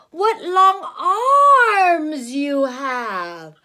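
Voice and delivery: very slow, loud wondering; amazed. Acted. Red Riding Hood wondering at granny, very slow. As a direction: marvel at the eyes.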